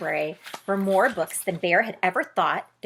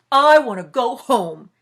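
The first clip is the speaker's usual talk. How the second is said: huffy demand; 2 semitones higher, 9 dB louder than usual. Acted. Bear sulks.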